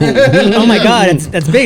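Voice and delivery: imitating his wife, slow and breathy-amazed; wife's mock gasp. Man imitating his wife reacting to his swollen balls, slow mock awe. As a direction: play the impressed wife, drawn out. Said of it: "my wife is all like".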